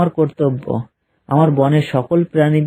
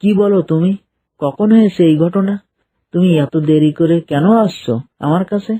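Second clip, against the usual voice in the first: a startled king demands the news; surprised; 2 semitones higher than usual. Acted. Lion king hears of kidnapping.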